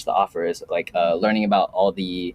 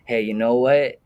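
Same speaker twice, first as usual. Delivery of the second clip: put-on Filipino accent. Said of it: "with a Filipino accent too".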